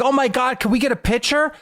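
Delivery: high, gushing fan voice; excited fan. Retold or imitated. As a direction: squeal it like a starstruck fan. Imitating excited fans at door.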